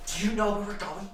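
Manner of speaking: high quizzical NPC voice; she goes. Acted. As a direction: ask it high and curious. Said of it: "she goes".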